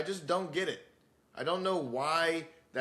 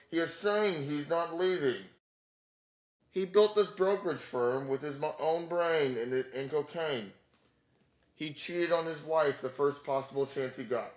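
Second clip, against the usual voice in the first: weird AI voice; 2 semitones higher than usual. Retold or imitated. Comedian mimics the narrator over pirated movie clips, mock AI voice. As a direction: imitate an AI voice-over recapping a movie. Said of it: "weird A I voice in the background going".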